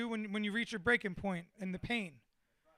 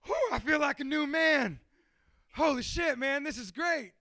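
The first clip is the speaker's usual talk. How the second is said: imitated relieved elation; 4 semitones higher than usual. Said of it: "And then he's like".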